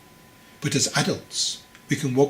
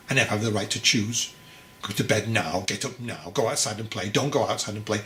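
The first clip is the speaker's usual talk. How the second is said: building angry rant. Acted. Young man ranting about strict parents.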